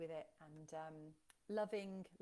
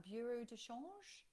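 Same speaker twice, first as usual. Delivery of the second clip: attempted French accent; 3 semitones higher, slower than usual. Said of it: "that's a terrible accent".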